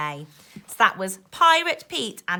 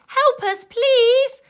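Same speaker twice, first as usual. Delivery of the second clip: high, louder cry for help; calling for help; 11 dB louder, slower than usual. Acted. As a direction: plead from the sinking ship. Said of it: "someone calling for help".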